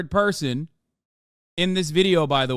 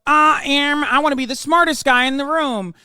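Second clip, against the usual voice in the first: mocking debate lord; 7 semitones higher, 4 dB louder than usual. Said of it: "They only go".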